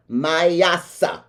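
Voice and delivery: Mayasa said as my-AH-suh; Mayasa, drawn out in a hometown twang; native-tongue pronunciation. Shown as a demonstration. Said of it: "I say it in my native tongue".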